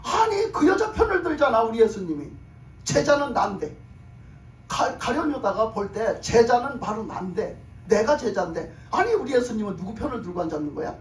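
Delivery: imitated huffy protest; acted irritated Judas. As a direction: act out a put-out disciple's complaint. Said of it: "가룟 유다가 더 성질이 났어요".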